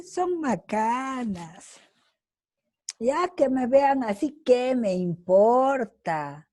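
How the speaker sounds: drawn-out, scoffing brush-off; mock dismissive. Teacher voices unwilling participants to the class, mock dismissive. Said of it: "Hay muchos que van a decir".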